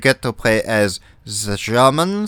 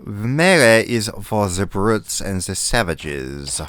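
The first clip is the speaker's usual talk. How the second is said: haughty put-on German accent; German officer disdain; bad German accent; 4 semitones lower than usual. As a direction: sniff at the brutes in fake German.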